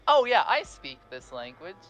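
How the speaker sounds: confident claim. Pretend. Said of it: "when you're saying".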